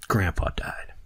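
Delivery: hushed whisper; whispered news. Retold or imitated. Brother telling him at lunch, whispered. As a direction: breathe it out like grave news. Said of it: "and tell me".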